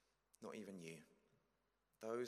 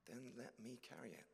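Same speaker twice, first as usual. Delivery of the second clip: calm Jesus; 2 semitones higher, 7 dB quieter than usual. Acted. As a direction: answer quietly and kindly. Jesus answers.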